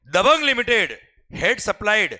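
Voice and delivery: very slow, each word spaced out for note-taking; slow dictation. Shown as a demonstration. Teacher dictating the customs question to the class. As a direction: read it out so students can copy.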